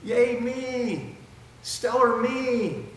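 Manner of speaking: high, gloating self-praise; mock boastful Peter. Preacher mocking Peter's bragging, high and gloating. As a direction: crow about yourself like a braggart. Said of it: "Kinda like".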